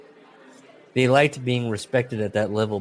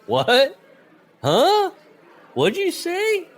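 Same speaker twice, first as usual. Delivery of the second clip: baffled yelling; 8 dB louder, much slower than usual. Retold or imitated. Confused wrestler mid-match.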